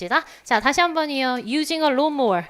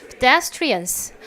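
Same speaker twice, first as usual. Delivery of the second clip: Pedestrians slowly, light pe, weight on des; very slow Pedestrians, des stressed; much slower than usual. Shown as a demonstration. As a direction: drag out Pedestrians, barely touching pe. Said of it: "pedestrian 여기에 강세가 있어서".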